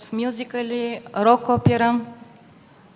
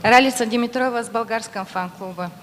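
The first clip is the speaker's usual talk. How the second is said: repeated much louder for the hall. Real, not acted. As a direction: raise the voice so all can hear. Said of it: "Погромче, пожалуйста".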